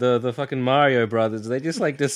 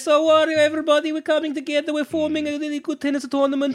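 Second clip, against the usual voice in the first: very high cartoon game-character voice. Imagining how a tennis team-up with Wario began, Mario voice. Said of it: "Is that your everybody voice?".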